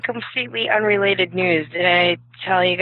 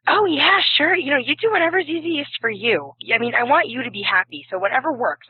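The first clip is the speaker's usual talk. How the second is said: high, easygoing mock approval; breezy professor; 5 semitones higher than usual. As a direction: play the professor who happily agrees. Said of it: "My professor goes".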